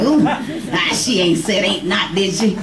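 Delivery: lightly voiced prissy teacher; a hint of a fussy grammar teacher; mock teacher tutting at "ain't not"; mock cringing teacher. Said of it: "Some teachers out there cringing".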